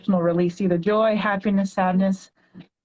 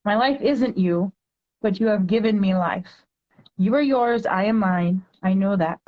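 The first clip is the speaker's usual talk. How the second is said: poem reading; 2 semitones higher than usual. Acted. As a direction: read it like a heartfelt poem to a child. Reads her poem aloud.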